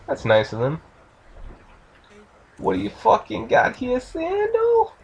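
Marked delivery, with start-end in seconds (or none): 2.6-4.9 high-pitched mock Bill Burr-style accent. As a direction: put on the accent, climbing very high at the end. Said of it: "that stupid Bill Burr accent thing".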